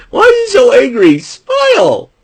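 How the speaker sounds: mock shout.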